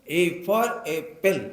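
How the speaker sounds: lightly voiced child reciting English; child's recitation. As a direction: draw it out slowly like a tot reciting a lesson. (बच्चे जैसा धीमा, रटा हुआ पाठ)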